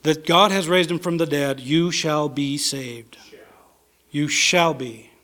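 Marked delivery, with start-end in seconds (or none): 1.6-3.2 hushed whisper. Acted. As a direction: whisper "you shall be saved" slowly, breathless. Preacher repeats the promise.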